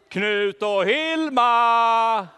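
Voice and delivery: very slow, loud drawn-out call; long loud call with a laugh in it; calling together. Acted. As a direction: stretch every syllable, calling far away. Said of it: "Ska vi ropa?".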